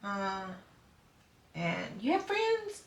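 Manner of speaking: mock viewer. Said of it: "You go".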